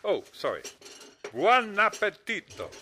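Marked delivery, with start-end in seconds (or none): 1.3-2.7 hammed-up Italian accent, slow and louder; mock Italian. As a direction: play the Italian waiter with a fake Italian accent. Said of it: "that phony Italian accent".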